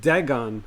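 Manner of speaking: "Dagon" with a as in dad, full -on; first vowel of "Dagon" as in bag. Shown as a demonstration. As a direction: say "Dagon" as DAG-on, short a. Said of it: "I think it's Dagon".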